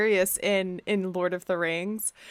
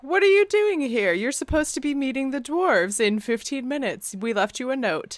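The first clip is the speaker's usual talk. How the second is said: mock alarmed Gandalf; 5 semitones higher than usual. Gandalf scolding Bilbo.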